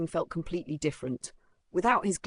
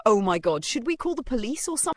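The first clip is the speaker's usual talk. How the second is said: shocked; 7 semitones higher, 5 dB louder than usual. Acted. Customers react in shock.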